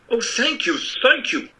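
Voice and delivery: high, eager thanks; grateful cry. Acted. The Scarecrow thanks Oz for the promised brains, high and eager. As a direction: gush with gratitude. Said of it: "cried the Scarecrow".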